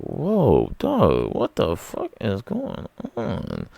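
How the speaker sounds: imitating being startled; hammed-up alarmed dog; mock shock. Shocked reaction in story.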